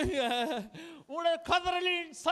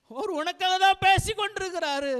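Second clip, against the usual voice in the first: higher and louder, hitting தான்; louder repeat; 3 semitones higher, 5 dB louder than usual. Acted. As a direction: repeat it with more force, stressing தான். Repeated line, second take louder.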